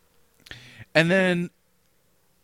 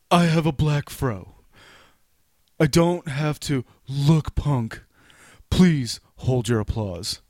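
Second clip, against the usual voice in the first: mock teen voice; 2 semitones higher than usual. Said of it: "You're not gonna attempt to do my voice".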